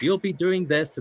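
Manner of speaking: light announcer voice; Howard Finkel voice. Retold or imitated. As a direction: keep the ring announcer voice going. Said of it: "does his voice".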